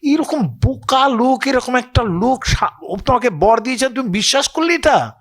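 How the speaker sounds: mock the foolish demon as Mohini; উঁচু গলায় মোহিনীর বিদ্রূপ. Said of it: "বলে".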